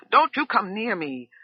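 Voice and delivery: high, loud warning; shouted. A narrator's reading. Wife warning the cook off, loud shout. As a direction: keep her back with a yell. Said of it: "Margaret shouted".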